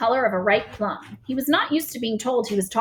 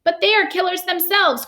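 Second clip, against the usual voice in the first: indignant cry; 10 semitones higher than usual. A narrator's reading. Army chief objects to the Queen, high outraged cry. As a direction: push back in outrage. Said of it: "cried the head of the army".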